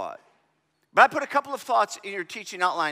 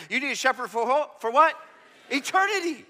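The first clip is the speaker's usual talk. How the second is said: louder; 3 semitones higher than usual. Shown as a demonstration. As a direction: call it out again, louder. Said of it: "Say it again louder so we can all hear".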